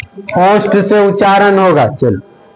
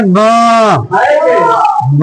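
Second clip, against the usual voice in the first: blocked-nose demo of the letter; stuffed-up nasal consonant demo; nose pinched shut. Shown as a demonstration. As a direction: say the sound with the nose held closed. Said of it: "नाक बंद करके बोलो".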